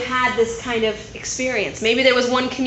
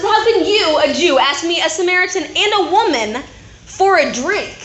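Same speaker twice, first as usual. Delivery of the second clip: higher, louder affronted retort; indignant challenge; 5 semitones higher, 4 dB louder than usual. Acted. Samaritan woman to Jesus at the well, indignant and affronted. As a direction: push back at him, offended.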